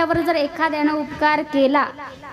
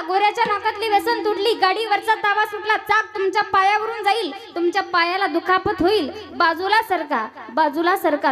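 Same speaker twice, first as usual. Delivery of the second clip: higher, urgent calling out, fading at the end; yelling a warning; 4 semitones higher than usual. Retold or imitated. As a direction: keep warning the crowd, easing off. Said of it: "जोरजोरात ओरडायला लागला".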